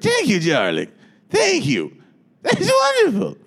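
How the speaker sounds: gushing star voice, way up high; over-the-top grateful diva; impression of a famous singer. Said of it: "she's just like".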